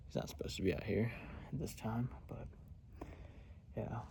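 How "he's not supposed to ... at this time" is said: hushed whisper, imagining the deer's thoughts; a whisper voicing the wary deer; imagined deer whispering. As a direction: breathe it out so the deer won't hear. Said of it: "They're probably wondering".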